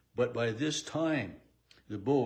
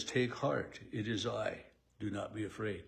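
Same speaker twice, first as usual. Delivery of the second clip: softer and softer, calming the frightened; gentle reassurance; 2 semitones lower, 5 dB quieter than usual. Acted. Jesus calming his frightened disciples, gentle and soft. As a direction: soothe them, let it fall gently.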